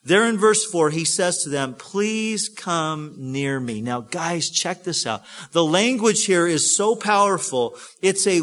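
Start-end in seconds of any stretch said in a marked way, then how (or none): 1.8-3.8 slow, gentle invitation; tender plea. Acted. Joseph calling his brothers near, tender plea. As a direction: draw them in slowly and tenderly. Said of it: "Joseph says something so precious here".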